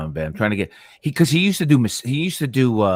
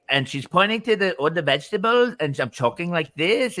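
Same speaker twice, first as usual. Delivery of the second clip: lightly higher mock Spanish accent; fake Spanish accent; 4 semitones higher than usual. Imitating the wife pointing at vegetables, mock fake Spanish accent. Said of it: "she doesn't talk like that at all".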